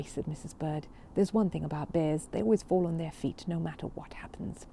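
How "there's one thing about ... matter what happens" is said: forced cheer. Acted. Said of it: "did her best to sound cheerful".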